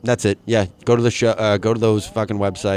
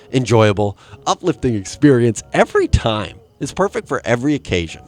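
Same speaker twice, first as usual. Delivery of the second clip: ad read voice; 3 dB louder than usual. Acted. Reading ad copy in style.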